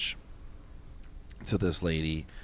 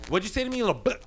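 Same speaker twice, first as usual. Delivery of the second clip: retold snarl; 9 semitones higher, much faster than usual. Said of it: "She got".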